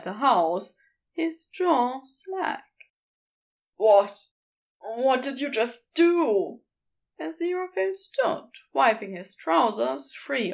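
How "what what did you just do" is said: Crowley's voice. Acted.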